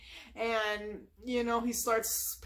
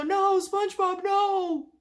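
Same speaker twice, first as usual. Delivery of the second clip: higher, louder yelling through glass; frantic yell; 8 semitones higher, 6 dB louder, much slower than usual. Retold or imitated. Patrick banging on the window to stop SpongeBob, yelling. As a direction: shout a warning through a window. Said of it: "banging on the window".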